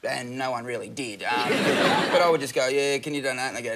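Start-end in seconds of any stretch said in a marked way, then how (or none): 2.7-3.5 low-key, half-hearted phone appeal; imitating a listless call centre worker; un-revved sales pitch. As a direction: ask for money with little push. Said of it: "You need to rev it up".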